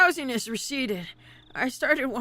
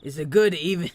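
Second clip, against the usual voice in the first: put-on lower, easy older man; 7 semitones lower, 4 dB louder than usual. Older driver hands over coffee, voice pitched low. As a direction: offer the can like a calm older man.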